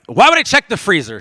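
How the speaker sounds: husband scoffing at wife's suggestion; loud disbelieving question; exasperated. Retold or imitated. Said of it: "he's like".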